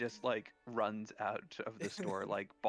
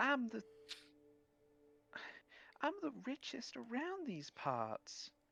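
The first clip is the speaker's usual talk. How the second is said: put-on vapid, airheaded rich girl voice, much higher; 14 semitones higher, 3 dB quieter than usual. Playing a character who is eyeing the player up and down, vapid rich girl voice. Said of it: "the most like vapid rich girl kind of like".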